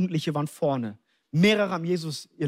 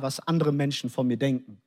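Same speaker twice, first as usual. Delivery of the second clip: normal talking voice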